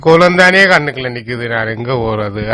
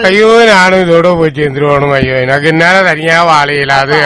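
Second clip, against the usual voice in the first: anguished cry of a grieving man; despairing lament. Acted. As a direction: beg to follow her, tearful. Widower wants to die too.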